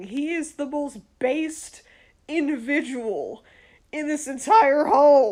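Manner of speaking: voice cracking and breaking mid-phrase, halting. Talking about a person in the home, voice cracking. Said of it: "My voice just cracked".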